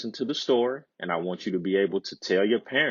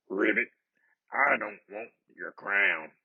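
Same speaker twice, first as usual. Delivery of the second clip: timid scratchy frog. A narrator's reading. Storyteller voicing the frog to the crying princess, timid and scratchy. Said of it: "the frog said".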